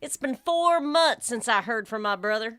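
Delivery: put-on light Southern accent; easygoing Southern storyteller, lightly put on. Host reads a redneck example sentence for the game, light Southern accent. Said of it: "I can do Southern".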